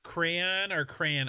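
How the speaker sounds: drawn-out "crayon", slowly comparing pronunciations; crayon pronounced two ways. Shown as a demonstration. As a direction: stretch "crayon", ending on one-syllable "cran". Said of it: "I, I say crayon".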